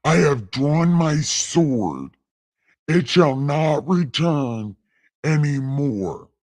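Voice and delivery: a hint of a solemn God, slow; slow and grand, drawing the sword. Gamer voicing the Lord's warning in a light God voice. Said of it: "right now in God voice".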